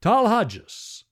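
Talhajas said high and slow, cold and hard; an elder passing cold judgement. Acted. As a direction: address him with icy severity. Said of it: "in a cold, hard voice".

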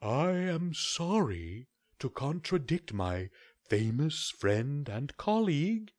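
slow, polite owl apology; a hint of an owl doctor, unhurried; lightly voiced owl. Owl contradicts the crow.

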